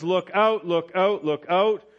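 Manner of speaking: Paul's repeated call to beware; emphatic warning. Acted. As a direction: warn the church in earnest. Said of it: "So Paul says".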